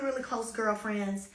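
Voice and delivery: normal talking voice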